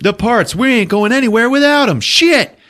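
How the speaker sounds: rising high-pitched mock panic; distressed character. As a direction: build to a loud, high curse. Treat frets over lost parts.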